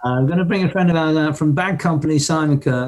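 lightly imitated Birmingham accent; mild mock Birmingham stage announcement; Robert. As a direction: introduce a guest with a hint of Brummie. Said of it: "You know, that Birmingham accent".

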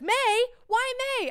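high, loud disbelief; shocked mom. Retold or imitated. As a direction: imitate an incredulous mother. Retold mother's shock at the date.

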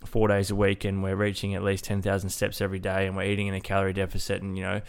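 blocked nose, nasal voice. Real, not acted. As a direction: talk through a stuffy nose. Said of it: "the nasally voice that you'll probably hear in today's episode".

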